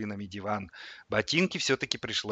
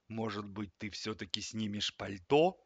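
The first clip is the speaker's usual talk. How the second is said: cold reproof; 4 dB quieter than usual. A narrator's reading. Stern fridge chides the boy.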